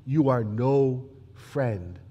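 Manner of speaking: slow, loud, weighty warning; Caiaphas' threat. Acted. Caiaphas warning Pilate before the crowd, slow and loud. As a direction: lay down the ultimatum, each word heavy. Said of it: "Caiaphas ... steps forward and says".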